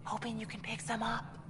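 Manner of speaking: hushed, conspiratorial half-whisper. Acted. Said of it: "Why are you whispering?".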